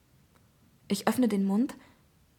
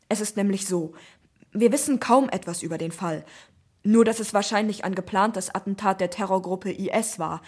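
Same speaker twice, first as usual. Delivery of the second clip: brisk police commissioner; 4 dB louder than usual. Acted. Commissioner's long phone reply.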